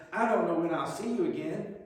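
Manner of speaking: a hint of Southern relative, full of concern. Southern relative saying goodbye with a hug, mild Southern accent. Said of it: "proclaimed in their southern voice".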